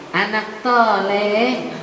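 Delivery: toleh said slowly, s turned to t; mock slip of the tongue; mispronounced soleh. Shown as a demonstration. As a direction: stretch toleh out slowly with a laugh. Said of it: "Itu anak brengsek".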